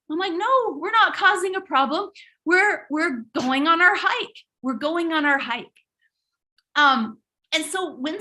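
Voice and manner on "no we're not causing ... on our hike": higher, firm reassurance; mother reassuring her son, firm and upbeat. Retold or imitated. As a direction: insist to the boy all is fine. Mom reassuring worried son.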